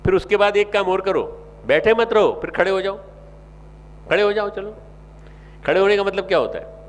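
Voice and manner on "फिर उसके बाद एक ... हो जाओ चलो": fiery sermon exhortation; rousing call. Real, not acted. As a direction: call the crowd to rise. Preacher rousing audience.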